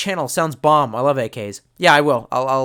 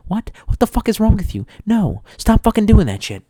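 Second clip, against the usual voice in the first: mock outrage; 4 semitones higher, 5 dB louder than usual.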